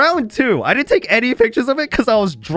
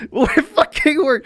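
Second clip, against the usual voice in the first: "It fucking worked" laughed out high and slow; laughing; 12 semitones higher than usual. Real, not acted. Laughing in disbelief at the Naruto song trick.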